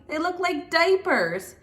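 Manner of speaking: put-on high, slow childish whine; whining. A narrator's reading. Froggy whines to Mom about the diaper pants. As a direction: drag it out in a sulky whine. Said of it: "whined Froggy".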